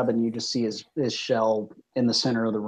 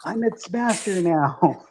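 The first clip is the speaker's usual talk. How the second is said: dark lord; 7 semitones higher, slower than usual. Acted. Diz gloats over crawfish.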